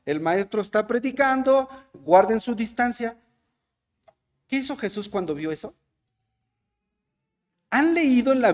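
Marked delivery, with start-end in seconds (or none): 0.0-3.2 put-on apostles shooing children.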